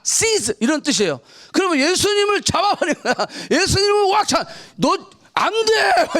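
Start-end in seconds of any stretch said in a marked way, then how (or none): 4.8-6.1 mock stern forbidding. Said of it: "이렇게 얘기한 거야".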